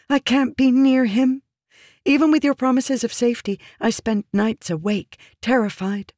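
high, urgent, fearful woman's voice; pleading woman, intense. Acted. Woman warning her protector of the king's rage, intensely pleading. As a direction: press the fear home in a high voice.

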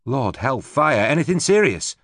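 high, startled question; surprised. A narrator's reading. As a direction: gasp at the blood. Rachel surprised seeing wounds.

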